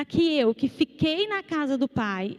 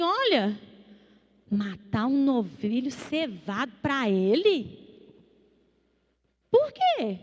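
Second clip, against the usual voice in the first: indignant complaint; slower than usual. Retold or imitated. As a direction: protest to the father in disbelief. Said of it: "falar com meu pai assim".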